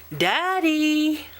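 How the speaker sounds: high call of "Daddy"; child calling Daddy. Acted. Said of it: "Luke said a little louder".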